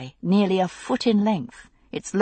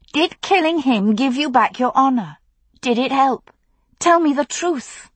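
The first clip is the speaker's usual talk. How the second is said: angry demand; 7 semitones higher than usual. Acted. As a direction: demand the truth fiercely. Daughter demanding truth.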